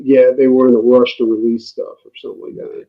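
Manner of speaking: muffled mic sound. Real, not acted. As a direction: voice dulled as if covered. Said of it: "Sounds, like, a little muffled".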